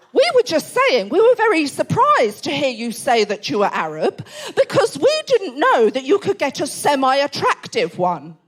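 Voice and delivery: mock-earnest dad, drawing out the end; well-meaning awkward dad. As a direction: deliver a clumsy compliment as an earnest dad. Acting out the awkward dad's remark.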